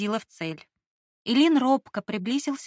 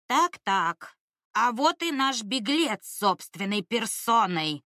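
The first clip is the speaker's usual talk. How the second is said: creaky monster voice; slower than usual. Acted. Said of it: "отвратительный скрипящий голос".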